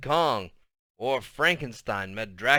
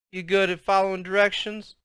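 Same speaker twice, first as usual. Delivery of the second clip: snapped question; 6 semitones higher than usual. Acted. Grandma repeating to Byron, sharp and snapped. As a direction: pop it like a paper bag snapping open. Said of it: "voice popped like one of those big brown grocery bags being snapped open".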